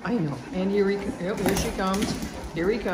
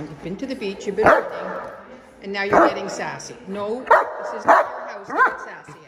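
scolding; 3 semitones higher, 5 dB louder than usual. Real, not acted. Scolding the dogs on the sofa.

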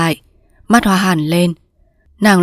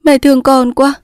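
high, emotional daughter; touched daughter, pitched up; deeply moved; 7 semitones higher, 3 dB louder than usual. Acted. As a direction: gush with feeling to your mother. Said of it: "Cúc ôm lấy mẹ cảm động".

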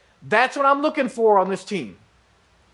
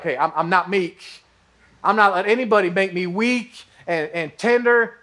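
mock defensive guy. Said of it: "the guys in here are like".

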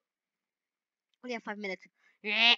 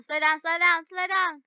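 rising urgent yell; 5 semitones higher, 4 dB louder than usual. Real, not acted. Yelling at herself driving.

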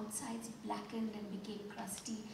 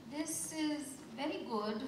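polite, chewing while talking; mouth full; 5 semitones higher, slower than usual. Acted. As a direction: say it through a mouthful of food. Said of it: "Amba coughed politely as she chewed".

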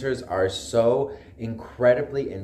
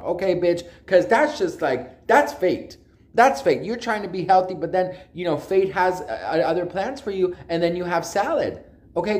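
high, loud and sassy, full of attitude; sassy rant; 7 semitones higher, 4 dB louder than usual. Real, not acted. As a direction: preach it like a diva who knows best. Sassy rant about fate.

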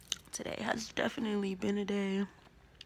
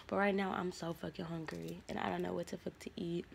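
whispering; 6 dB quieter than usual. Real, not acted. Hungry, whispered complaint.

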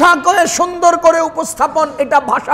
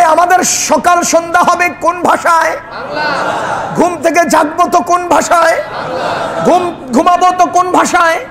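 raised preaching voice asking the crowd; rousing call. Real, not acted. Preacher calls out to the congregation, rousing.

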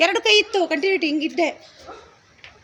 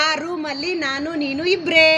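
slow, cheerful, smiling line reading; slow happy demo; slower than usual. Shown as a demonstration. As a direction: draw it out gently with a smile for the child. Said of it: "ಖುಷಿಯಾಗಿ ನಗ್ಬೇಕು". (ನಿಧಾನವಾಗಿ, ಖುಷಿಯಾಗಿ ನಗುತ್ತಾ ಹೇಳು)

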